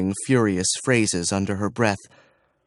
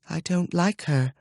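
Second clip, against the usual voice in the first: put-on high, softer sullen child; sulky child; 7 semitones higher, 4 dB quieter than usual. Sullen princess refusing her governess. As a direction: mumble it like a sulky girl.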